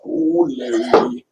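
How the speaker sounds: lingering shout-out; playful name call. Real, not acted. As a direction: stretch the name out high and playfully. Calls out viewer's name playfully.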